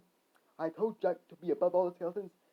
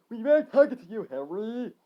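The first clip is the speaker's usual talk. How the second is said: high, loud retort; yell; 4 semitones higher, 8 dB louder than usual. Acted. Billy shutting Harry out, yelling. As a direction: yell it at him. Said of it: "Billy yelled".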